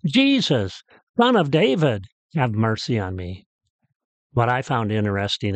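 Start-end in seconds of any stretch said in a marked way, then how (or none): 0.1-3.4 desperate shouting. Retold or imitated. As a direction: act out a beggar's desperate plea, short of a full shout. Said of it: "He cried and shouted all the louder".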